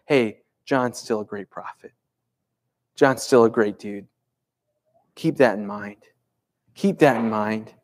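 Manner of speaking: low, measured vouching for a friend; understated, settled sincerity. Retold or imitated. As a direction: drop low and reassure them calmly. Jesus reassures the crowd about John.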